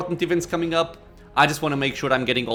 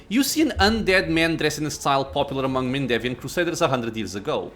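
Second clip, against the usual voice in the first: measured reading of the scene; story narration. A narrator's reading.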